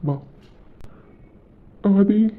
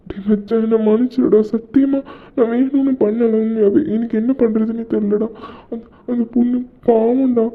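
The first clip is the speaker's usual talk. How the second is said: tearful pleading; 4 semitones higher than usual. Acted. Desperate pleading, near tears.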